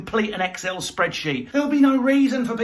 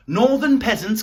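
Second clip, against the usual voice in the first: lightly louder, sneering lord; louder haughty master; 3 semitones higher, 5 dB louder than usual. Pretend. A London master scolding northerners, louder and sneering. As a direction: call down to them with mock authority. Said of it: "It is forbidden".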